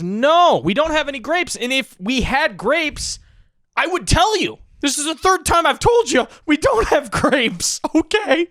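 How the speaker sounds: high, loud exasperated shouting; hysterical bartender. Retold or imitated. Bartender yelling at the pesky duck, hysterical high shout. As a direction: bartender losing it at the duck, shrieking. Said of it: "He's hysterical at this point".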